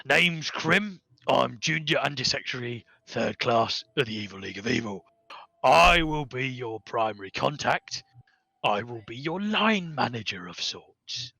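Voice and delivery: a lightly voiced stout goblin clerk; lightly voiced goblin functionary; goblin Krim. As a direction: play the cheery goblin bureaucrat greeting the party.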